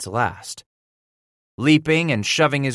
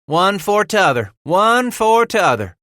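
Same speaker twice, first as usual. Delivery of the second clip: smiling repetition; 10 semitones higher, 6 dB louder than usual. A narrator's reading. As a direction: chime in with a ready smile. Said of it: "repeated with that ready smile of his".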